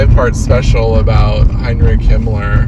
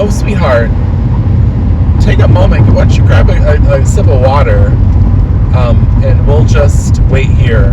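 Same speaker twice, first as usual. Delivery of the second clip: kind customer; 2 semitones higher, 4 dB louder than usual. Pretend. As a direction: coo it out to make them feel looked after. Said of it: "if a customer was like".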